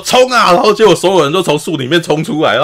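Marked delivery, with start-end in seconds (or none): 0.1-0.5 high, loud retold charge yell; angry battle cry. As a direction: shout the charge like a furious father. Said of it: "然后爸爸很生气说". (愤怒地高声大喊冲锋)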